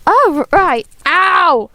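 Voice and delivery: stammering in tooth pain; sensitive teeth. Real, not acted. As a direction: wince and stumble, teeth hurting.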